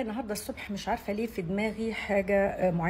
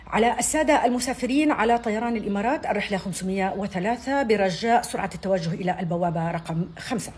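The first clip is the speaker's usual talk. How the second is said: higher, louder hurried gate call; urgent airport announcement; 4 semitones higher, 5 dB louder than usual. Shown as a demonstration. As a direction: push them to hurry to the gate. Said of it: "لما يحمسوهم بقى شوية زيادة".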